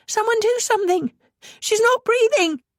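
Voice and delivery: high, frantic call for help; a child screaming for someone to act; panicked cry. A narrator's reading. Anna crying out as her mother stops breathing.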